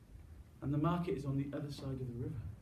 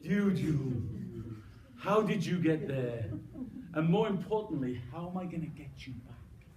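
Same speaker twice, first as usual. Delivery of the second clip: mild dismay; 2 semitones higher than usual. Acted. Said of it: "What does Megan say".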